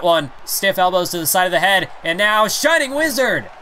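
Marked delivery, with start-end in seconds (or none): 2.0-3.5 slowed, punched move call; excited call. Acted. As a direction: announce the big move with hype. Big move called out.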